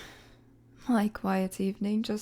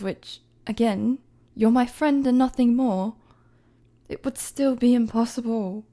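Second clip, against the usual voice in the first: haughty rebuff; 2 semitones higher, 5 dB louder than usual. Acted. Queen reminding a commoner of his place, haughty. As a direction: look down on him from the throne.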